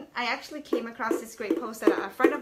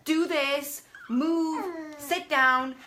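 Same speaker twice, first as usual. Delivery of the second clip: louder, higher barked orders; mock bossy commands; 4 semitones higher, 5 dB louder, much slower than usual. Shown as a demonstration. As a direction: snap orders at a child. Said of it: "instead of saying".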